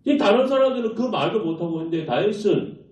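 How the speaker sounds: ordinary delivery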